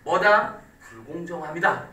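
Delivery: mock self-justifying. Shown as a demonstration. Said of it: "이렇게".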